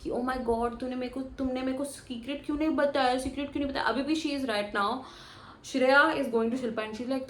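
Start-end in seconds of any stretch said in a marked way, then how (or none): 0.1-3.9 mock high-pitched whine. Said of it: "in that high pitched tone".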